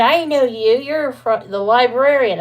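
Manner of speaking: high and loud, sudden delight; light up as it clicks; greeting the retired librarian in surprise; excited recognition. Retold or imitated.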